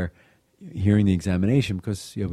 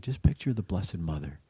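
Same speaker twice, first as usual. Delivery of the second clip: gently coax, lifting the pitch; gentle voice; 2 semitones higher than usual. Retold or imitated. Aunt reassuring a nervous girl before confession, gentle voice. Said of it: "in her gentle voice said".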